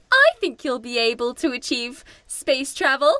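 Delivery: high, fast, sweetly encouraging; Barbie sweetly encouraging the 1950s crowd; mock Barbie. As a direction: gush reassurance while hiding a secret. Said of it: "she's very much like".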